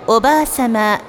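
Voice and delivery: polite sing-song store paging voice; department store announcer. Acted. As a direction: page a customer over the store speakers.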